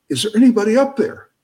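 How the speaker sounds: high, quick mock call for help; yelling up. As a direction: call up from down a well, hammed-up. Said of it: "he yells up".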